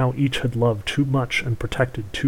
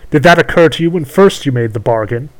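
witch voice; 3 semitones higher, 7 dB louder than usual. Acted. Witch questions the prince.

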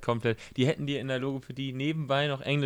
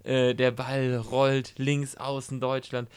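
slow live match commentary; sports commentary; slower than usual. Retold or imitated. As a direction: call it like a football reporter. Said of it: "Er macht es wirklich wie eine Reportage".

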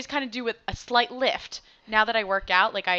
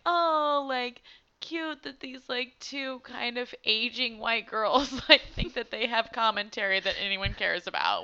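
condescending; 4 semitones higher than usual. Pretend. Voicing a condescending hater.

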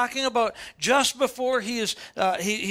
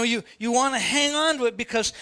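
ordinary talk

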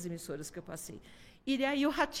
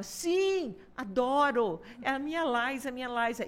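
retold shout; 2 semitones higher than usual. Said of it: "E o Beto gritava".

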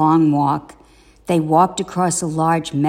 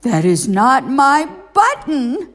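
higher, whiny wail; 7 semitones higher than usual. A narrator's reading. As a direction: Toad wailing over the wrong button. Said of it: "wailed Toad".

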